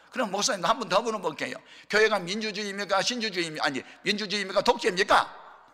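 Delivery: acted-out heated interrogation; confrontational questioning. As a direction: press the pastor for an answer.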